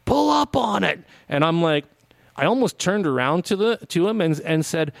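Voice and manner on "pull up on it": high, mocking know-it-all voice; smart aleck. Host mimicking the snarky cop's order, smart-aleck voice. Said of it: "smart aleck voice".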